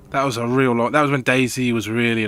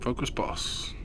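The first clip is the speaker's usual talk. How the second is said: whisper; 11 dB quieter, slower than usual. Real, not acted. Quiet callout to raid.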